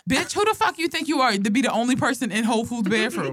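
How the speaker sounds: mildly indignant retold rant; mad. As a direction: replay your annoyance with a laugh underneath. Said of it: "And I got so mad".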